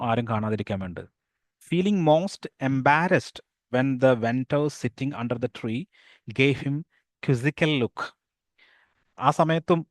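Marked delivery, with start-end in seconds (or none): 1.7-8.2 slow, careful read-aloud of the story. A narrator's reading. Teacher reading the English story to pupils, slow and careful. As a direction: read the English lines slowly to the class.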